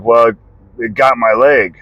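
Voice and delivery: dad's matter-of-fact, even delivery; monotone. Retold or imitated. Dad explaining the injury to his son, monotone. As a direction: play the injury down, barely inflected. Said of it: "Just monotone voice".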